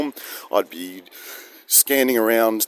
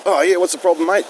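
Brett the mechanic; 8 semitones higher than usual. Retold or imitated. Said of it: "Brett turned up".

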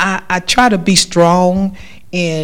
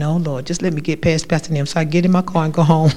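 laughing inner plea; 2 semitones lower, faster than usual. Retold or imitated. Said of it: "I'll be saying".

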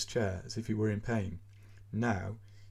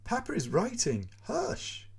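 put-on mother shushing child; 12 semitones higher than usual. A narrator's reading. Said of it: "says the mother".

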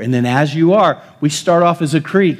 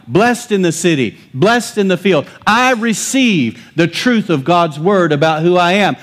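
emphatic preaching; 4 semitones higher than usual. Real, not acted. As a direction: declare it in punchy, rhythmic phrases.

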